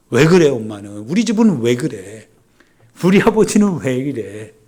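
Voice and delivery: loud mock grumbling of a nagging child; retold whining complaint. Children pestering parents over what the family lacks, mock whining. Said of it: "막 보채고 투덜대고 원망하고 불평하는".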